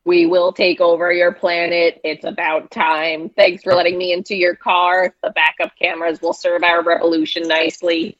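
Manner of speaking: chanted invading robot lines; robot song. Pretend. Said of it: "sing a little quick robot song".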